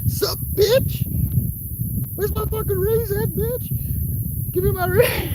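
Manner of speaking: very high, squeaky, loud mock voice; chaotic sassy demand. Imagined worker storming the office for a raise, squeaky sass. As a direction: squeal it like a cheeky cartoon brat. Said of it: "that's the chaotic energy".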